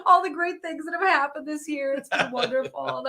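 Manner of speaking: high, tearful voice close to crying; choked up. Real, not acted. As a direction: push through rising tears. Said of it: "She's getting choked up".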